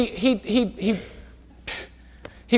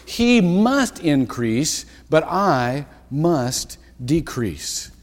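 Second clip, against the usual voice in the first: solemn reading; 3 semitones lower, much slower than usual. Shown as a demonstration. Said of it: "scripture read slowly".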